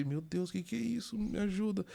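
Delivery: mildly acted nervous prayer for help; retold anxious plea. Retold frightened plea while gripping chair.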